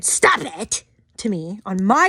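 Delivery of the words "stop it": flatly quoted command; a light imitation of a scolding stranger; quoted stop it. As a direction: say the command as she said it. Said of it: "the first woman who said".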